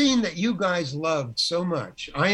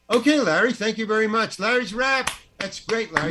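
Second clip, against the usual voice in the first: higher, lightly brisk wrap-up call; imitated director; 5 semitones higher than usual. Director wrapping the actor after the take, lightly imitated brisk call. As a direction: dismiss the actor in a raised, announcing pitch.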